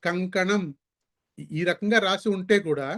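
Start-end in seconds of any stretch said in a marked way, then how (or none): 0.0-0.6 కంకణం said with a clean ng sound before క; teacher showing how to read కంకణం; careful example word. Shown as a demonstration. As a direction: read కంకణం slowly as a model. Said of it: "ఇప్పుడు ఇక్కడ".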